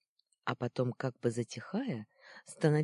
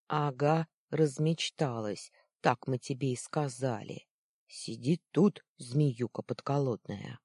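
a touch of sneering, a little louder; taunting boy; 4 dB louder than usual. Acted. Boy mocking trapped Luna, mildly loud. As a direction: tease her like a cocky kid.

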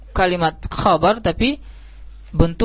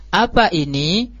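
"apa ini" asked slowly, rising on "ini"; question intonation; slower than usual. Shown as a demonstration. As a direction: lift the end of "apa ini" into a clear question. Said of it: "Harus sesuai".

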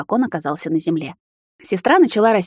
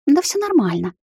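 defensive, higher heated retort; heated exclamation; 7 semitones higher than usual. Acted. Sister defensively brushes off her sister's question, heated. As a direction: blurt it defensively. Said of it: "запальчиво воскликнула она".

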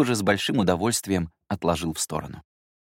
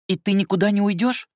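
put-on high, louder pleading child; little girl voice; 13 semitones higher, 5 dB louder than usual. Sister asking her brother not to leave, high child voice. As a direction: beg him to stay, like a small girl.

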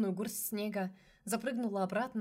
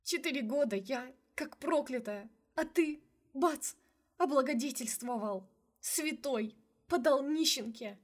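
sobbing rant; 5 semitones higher than usual. A narrator's reading. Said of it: "начала некрасиво рыдать".

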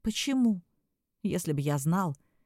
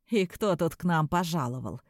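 mocking; 4 semitones lower than usual. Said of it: "Глумливо осведомился".

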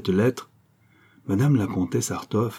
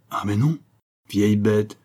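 a sharp, scornful exclamation; exclaimed insult. Acted. Venture mildly scolding the old widow, exclaiming. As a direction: snap it at the old woman, mildly. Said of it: "exclama Venture".

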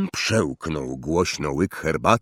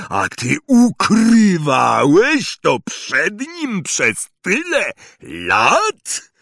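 trembling anger; 3 semitones higher, 3 dB louder, slower than usual. Acted. Hagrid to Vernon, anger building to a shout. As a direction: let fury rise syllable by syllable. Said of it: "każda sylaba drgała wściekłym gniewem".

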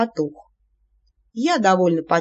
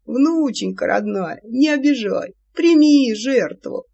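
put-on yelling old man; 3 semitones higher, slower than usual. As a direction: yell the plea like a crazed old man. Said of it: "вопя".

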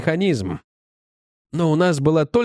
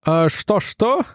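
puzzled query; 3 semitones higher, much slower than usual. Acted. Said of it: "переспросил Финли".

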